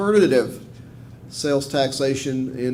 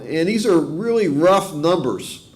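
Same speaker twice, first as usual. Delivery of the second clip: slow, leaning on the word rough; stress on rough; 3 semitones higher, slower than usual. Real, not acted. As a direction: drag out really rough numbers, hitting rough. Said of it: "I stress the word rough".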